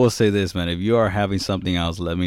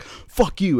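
mock parting jab; 9 semitones higher than usual. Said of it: "then he was like".

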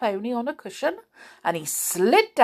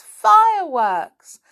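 higher, louder delighted shout; pixie; 10 semitones higher, 8 dB louder, slower than usual. Acted. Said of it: "shouted the angry pixie in delight".

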